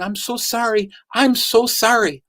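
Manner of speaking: lightly acted remorse, slowing on the repeat; retold apology. Frightened wife apologizing, retold.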